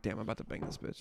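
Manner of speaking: put-on teen boy's private whispered thought. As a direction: breathe it under the breath, conspiratorial. Retold teenage inner thought.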